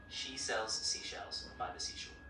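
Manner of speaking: slow, word by word; slow demo. Shown as a demonstration. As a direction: say each word separately and slowly. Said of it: "So slow it down".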